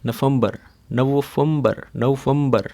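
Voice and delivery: नवंबर with an f sound, नफ़ंबर; Arabic pronunciation. Shown as a demonstration. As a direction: say नवंबर with fa instead of va. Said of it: "फा आ गया है". (अरबी में नवंबर, फा के साथ)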